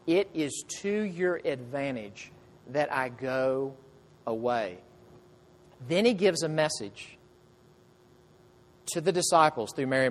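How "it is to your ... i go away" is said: softer and slow, tender reassurance; gentle Jesus. Shown as a demonstration. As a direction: say it slowly and softly, as a comfort. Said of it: "And Jesus says".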